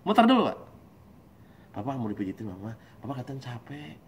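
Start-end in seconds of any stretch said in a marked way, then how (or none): 1.7-3.9 soft and lowered voice; quiet, tender offer to someone tired; gentle soothing spouse. Acted. Wife tending to her tired husband, softly.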